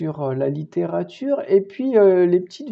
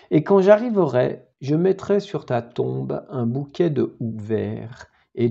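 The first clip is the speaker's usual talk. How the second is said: sober, measured verse reading; sad poem recitation. Acted. Récite un poème triste. (récitation de poème triste et sobre)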